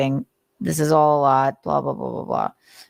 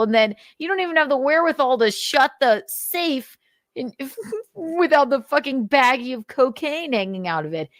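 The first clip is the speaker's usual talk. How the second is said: high, heated scolding rant; high exasperated tirade; incredulous rant; 6 semitones higher than usual. Real, not acted. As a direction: tear into him in disbelief. Ranting at Nick.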